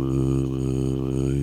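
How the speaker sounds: sustained ooh, hand cupped over mouth. Shown as a demonstration. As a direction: hum a note through a cupped hand. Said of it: "I'll do it kinda right now".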